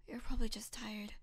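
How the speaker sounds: hushed whisper, no voice; whispered reassurance. Acted. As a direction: breathe it softly to calm her. Friend soothing, hushed.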